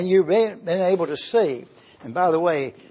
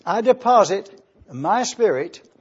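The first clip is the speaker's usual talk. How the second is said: reading scripture aloud. Shown as a demonstration. Preacher quoting Jesus' last words on the cross, solemn. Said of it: "When Jesus said".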